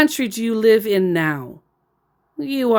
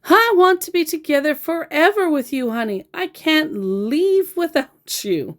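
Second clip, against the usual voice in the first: mock lovesick scammer; 8 semitones higher than usual. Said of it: "he said".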